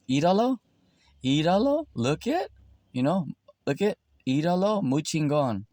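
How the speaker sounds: high, teasing "look at him" jeer; mocking taunt. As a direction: taunt him in a sing-song, pointing. Mocking a proud person.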